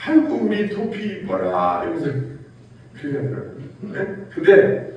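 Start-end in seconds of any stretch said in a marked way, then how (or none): 0.0-1.8 put-on slow, laughing baby talk to a puppy; fond owner cooing, slow and giggly; doting on the dog. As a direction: coo over the dog, chuckling. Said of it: "그 강아지를 이뻐할 때는요".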